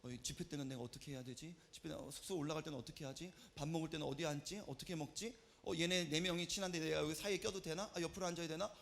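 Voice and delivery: low, soft fretting to oneself; inner monologue. Acted. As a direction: think aloud quietly, as a teenager worrying alone. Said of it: "혼자 계속해서 머릿속으로 생각을 하죠".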